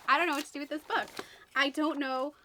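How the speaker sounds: flustered. Real, not acted. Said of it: "I'm so all over the place with my reactions".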